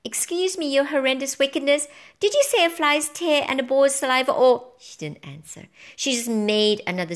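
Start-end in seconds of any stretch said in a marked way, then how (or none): 0.0-4.7 higher, hesitant toad voice; unsure toad. A narrator's reading. Toad checking an order with the witch, unsure. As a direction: timidly query the order after a little cough. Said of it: "unsure, and muttered".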